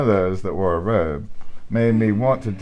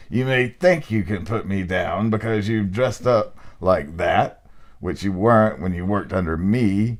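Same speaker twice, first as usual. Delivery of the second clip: hammed-up burly man. Reader hams up the ghost to his friend, hammed-up burly man. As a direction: puff up the chest and lay it on thick. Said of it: "trying to ham it up a little bit".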